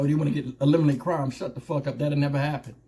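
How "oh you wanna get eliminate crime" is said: mocking quote. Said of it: "when they talk about".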